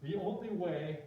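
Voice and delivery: "only" lifted and drawn out; stress on "only". Shown as a demonstration. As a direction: dictate it, underlining "only". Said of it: "I'm gonna underline that three times".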